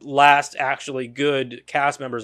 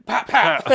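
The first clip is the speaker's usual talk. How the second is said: higher-pitched double pop; quick mimicked slap sounds; imitated smacks; 8 semitones higher than usual. Showing mother smacking both sons, playful sound effect.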